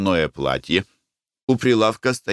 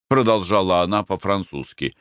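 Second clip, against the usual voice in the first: plain reading voice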